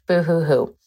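playful mock boo hoo; fake crying. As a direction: whimper a teasing boo hoo. Mocking her own crying.

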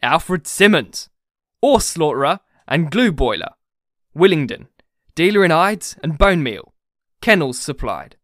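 loud, deliberate read-out; emphatic public reading; reading out grimly. A narrator's reading. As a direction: read the sign out loud, item by item. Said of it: "in a deadly silence he read".

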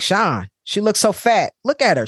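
high, scornful mother's voice; mom mocking. Mom on the phone to the aunt, mocking her daughter's body in a high, scornful voice. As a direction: sneer it out like a mean mom.

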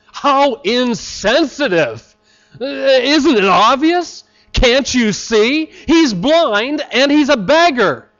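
slow, incredulous mock outrage; mock indignation. Preacher voicing his own shocked reaction to Jesus. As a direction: act out the shocked onlooker, slowly. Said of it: "That would be my reaction".

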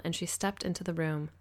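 ordinary delivery, nothing marked

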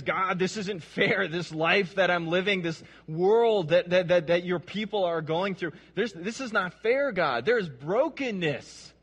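a touch of impassioned complaint; crying out to God. Acted. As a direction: protest to God with emphatic insistence. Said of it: "He's crying out to God".

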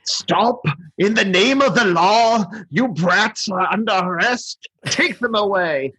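high, slow pompous tyrant; a hint of a hammed-up tyrant; over-the-top Burgermeister. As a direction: bark it like a pompous little ruler. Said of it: "over the top the Burgermeister is".

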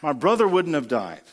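grieving sister blaming him; Martha's reproach. Retold or imitated. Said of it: "Martha said to Jesus".

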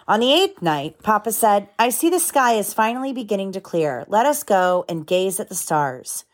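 gentle storybook read-aloud; lively picture book narration with voices; reading to children. A narrator's reading.

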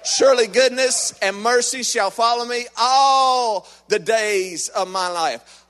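slow, proclaiming recitation; proclaimed scripture. Acted. Preacher proclaiming the verse to the church, slow and loud. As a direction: declare the verse to the hall.

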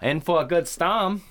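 put-on Maine accent. Quoting an islander from the film, hammed-up Maine accent. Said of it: "the Maine accent is hilarious".

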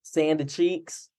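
slow, soft Southern twang on Sanda Cheeks; mock Texan twang. Host answers cohost's teasing in mock Texan twang. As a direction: drawl out Sanda Cheeks like a Texan cartoon squirrel. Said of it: "sound like, um, a character from SpongeBob".

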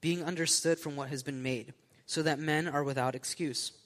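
measured, formal Bible reading; scripture reading. Acted. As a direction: read the passage aloud to a congregation. Reads scripture aloud.

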